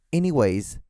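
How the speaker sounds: "anyways" held up as a mistake, s on the end; wrong form ANYWAYS. Shown as a demonstration. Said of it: "doesn't make you sound smart".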